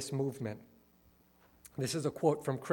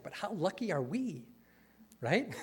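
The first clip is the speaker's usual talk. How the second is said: sarcastic; 3 dB quieter than usual. Real, not acted. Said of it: "I don't mean to be overly sarcastic".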